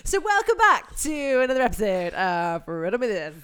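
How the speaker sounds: loud, bright show intro; show host voice. Acted. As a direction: announce it like a game show host.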